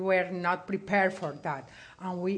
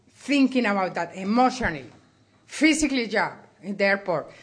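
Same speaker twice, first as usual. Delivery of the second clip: emotional; 4 dB louder than usual. Real, not acted. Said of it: "I'm a little emotional".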